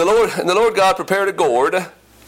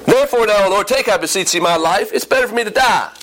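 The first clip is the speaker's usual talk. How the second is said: mildly angry, higher-pitched plea; angry prophet; 4 semitones higher than usual. Acted. Jonah begging the Lord to take his life, mildly angry. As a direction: read it as a touch of angry complaint. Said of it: "He's angry".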